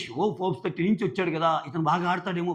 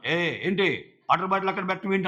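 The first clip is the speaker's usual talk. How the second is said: mock scolding. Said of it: "అంటున్నాడు హరీష్".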